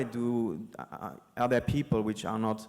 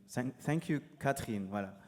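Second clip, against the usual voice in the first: playful French accent in English; 6 dB quieter, faster than usual. Shown as a demonstration. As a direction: Catherine said with a hard t, French style. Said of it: "Let's do the French accent in English".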